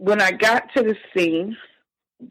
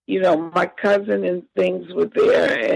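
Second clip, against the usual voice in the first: fighting back real tears; real crying. Real, not acted. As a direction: voice catching on a sob while recounting. Reliving brother's death, voice breaks.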